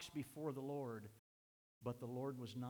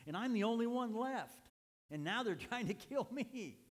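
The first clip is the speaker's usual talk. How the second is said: Elijah's lament; 8 semitones higher, 5 dB louder than usual. Acted. Preacher voicing Elijah's lament.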